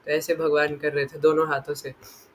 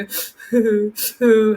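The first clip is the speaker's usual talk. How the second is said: imitated sobbing; 4 semitones higher, 4 dB louder than usual. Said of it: "जैसे सिसक सिसक के रो रहे थे".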